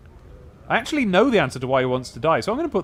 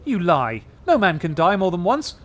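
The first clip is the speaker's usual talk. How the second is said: sneering; 4 semitones higher, 3 dB louder than usual. Acted. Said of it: "then sneers".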